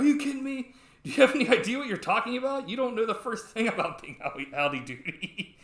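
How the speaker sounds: loud, high-pitched mock tirade, easing at the end; freaking out. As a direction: act out an outraged comedian losing it. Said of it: "freaks out".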